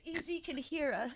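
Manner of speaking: very soft, secretive warning; whisper-quiet, as if he might overhear; playful conspiratorial undertone; hushed mock alarm. Acting callers hiding from Eazy.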